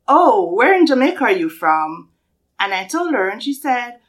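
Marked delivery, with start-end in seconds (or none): 0.1-2.1 mildly hammed-up curiosity, swooping pitch; curious stranger. Walmart lady asking a Jamaican about home, mock curious. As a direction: imitate an intrigued questioner. Acts out the Walmart lady's question.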